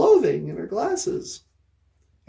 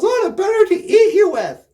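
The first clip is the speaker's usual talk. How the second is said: wolf voice; 6 semitones higher, 6 dB louder than usual. Acted. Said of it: "And the wolf goes".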